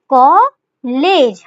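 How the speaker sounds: कॉलेज slowly broken in two, कॉ and लेज; split into syllables. Shown as a demonstration. Teacher writing out कॉलेज for students, split slowly by syllable. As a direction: draw out each half of कॉलेज separately.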